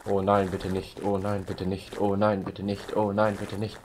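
Patrick style. Acted. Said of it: "Patrick-Style".

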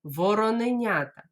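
Вороненята said briskly in one go; fast Вороненята for the class; quickly. Shown as a demonstration. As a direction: run it together fast. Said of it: "спробуємо швидко сказати".

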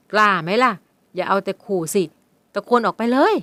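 a cocky dare, holding the upper hand; challenging. Acted. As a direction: stepfather dares the girl to scream. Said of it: "วันชนะท้าทาย".

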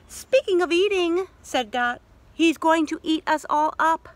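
dry Dot. Acted. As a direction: needle them like a wary sister.

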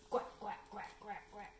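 string of duckling quacks; baby duckling. Acted. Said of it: "the baby duckling says".

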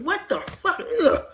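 high, laughing what the fuck; laughing disbelief. Real, not acted. Disbelief at a scene.

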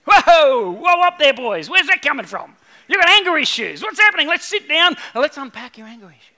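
high, loud whoa that settles into a calming talk; Jesus shouting whoa at angry disciples, then calming; Jesus reining them in. Retold or imitated. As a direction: pull the hotheads back like reining in a horse. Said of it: "Jesus is like".

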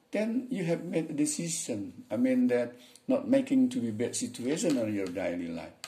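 boss in a dialogue. Acted. Voices Bush in dialogue.

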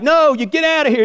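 very high, stubborn holler; mock-indignant old man; acted indignant shout.

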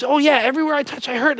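quick, high, fretful patient; anxious patient. Acted.

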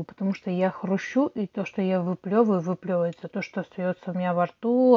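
normal talking voice

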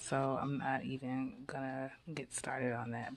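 a quick whispered aside. Real, not acted. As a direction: whisper it under your breath. Aside about her messy room.

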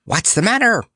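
put-on high, bouncy patchwork girl; merry cry. A narrator's reading. Patchwork girl bounces from behind the tree, merry. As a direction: call it out high and lively. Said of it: "cried the Patchwork Girl".

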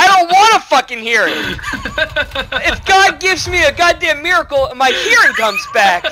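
mock defiant rant. Ranting as the imagined deaf player.

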